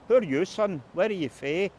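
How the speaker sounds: threatening street question; menacing local hardman. Retold or imitated. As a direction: voice the shady guys sizing him up. Dubious characters corner Christie.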